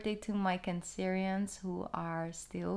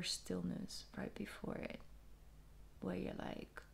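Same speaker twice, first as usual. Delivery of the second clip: hushed whisper; 9 dB quieter than usual. Real, not acted. Describes stillness in a hush.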